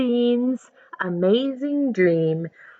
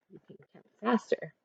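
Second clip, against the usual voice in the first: usual speaking voice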